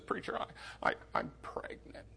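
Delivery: voiceless whisper, barely audible; a girl whispering to her preacher; whispered confession. Retold or imitated. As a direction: breathe it out like a scared girl.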